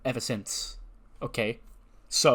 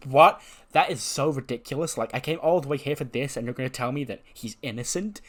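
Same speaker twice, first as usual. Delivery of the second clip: mock indignant complaint; indignant protest; 2 semitones higher than usual. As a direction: burst out in disbelief at the verdict. Outraged at the verdict.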